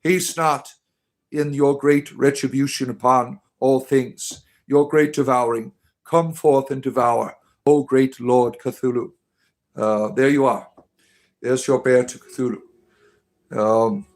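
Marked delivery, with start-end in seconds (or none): 0.0-9.1 a hammed-up ritual invocation, slowing on the names; mock prayer. Cult leader invoking Cthulhu over a friend, mock solemn prayer. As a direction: call on the dark god like a cult priest.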